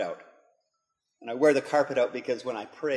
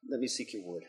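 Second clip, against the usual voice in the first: hushed, inward prayer fading to a whisper; quiet prayer; 4 semitones lower, 9 dB quieter than usual. Retold or imitated. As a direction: pray softly to the Lord, almost breathing the last words. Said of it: "open it up and say".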